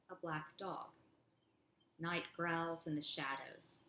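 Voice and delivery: slow, measured poetry recital; deliberate poet's cadence; poem reading. Acted. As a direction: give each line of verse room, falling at its end.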